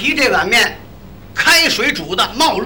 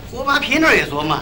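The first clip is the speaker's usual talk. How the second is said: usual speaking voice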